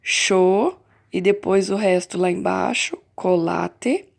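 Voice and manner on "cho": cho said louder on its own; teacher isolating the syllable cho; syllable stressed. Shown as a demonstration. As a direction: set cho apart as one syllable.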